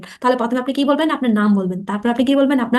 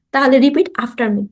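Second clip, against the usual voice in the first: slow instruction; 3 dB louder, much slower than usual. Shown as a demonstration. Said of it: "প্রথমে slowly বলবেন".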